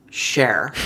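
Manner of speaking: whispered reveal; dramatic whisper. Acted. Hosts revealing the honoree in a hushed whisper. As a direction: breathe the name like a secret.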